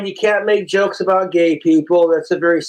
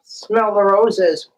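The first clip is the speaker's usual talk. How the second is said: slow punchline; much slower than usual. Acted. Punchline drawn out.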